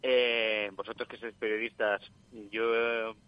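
voz de llamada telefónica; por teléfono. Real, not acted. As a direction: suena a través del teléfono. Llamada en directo al programa. (voz de oyente por teléfono)

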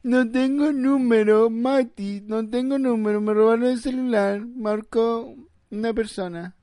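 high, loud, dragged-out wail; mock tearful caller. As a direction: imitate a friend whining down the phone, mocking. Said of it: "y el otro que llama". (imitación burlona de llanto, aguda)

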